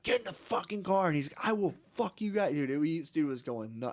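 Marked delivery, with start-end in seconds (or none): 0.0-1.1 high-pitched mock tantrum; imitated wilding out. Kid ordering his mom about, mock wilding out. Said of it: "he was just wilding out". 1.4-2.5 high-pitched mock threat; retold tantrum, voice pitched up; imitated wilding out. Kid threatening the tow-yard guys, mock wilding out. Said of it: "he was just wilding out".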